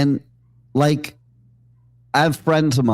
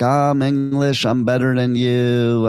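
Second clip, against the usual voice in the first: snooty English. Retold or imitated. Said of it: "she had that attitude".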